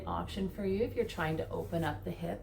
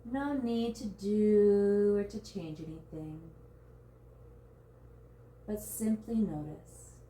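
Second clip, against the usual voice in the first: guided meditation. Real, not acted. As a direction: guide them gently into surrender, drawing out key words. Leads a body scan meditation.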